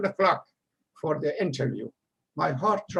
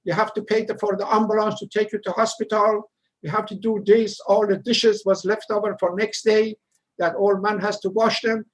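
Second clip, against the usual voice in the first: loud, raised scolding boss voice; angry manager cursing; 3 semitones higher, 4 dB louder than usual. Retold or imitated. Manager cursing out the dishwasher, loud angry scolding. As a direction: chew him out like a furious boss. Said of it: "start to chase me and curse me".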